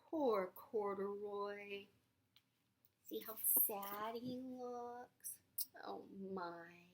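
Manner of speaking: slow, pitying poor Corduroy. Shown as a demonstration. Reader prompting the child to pity Corduroy, slow. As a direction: sigh it out with pity, slowly. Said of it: "You say".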